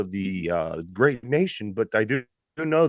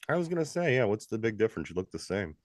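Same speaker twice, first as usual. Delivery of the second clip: teasing; 7 dB quieter than usual. Real, not acted. Teasing friend about his looks.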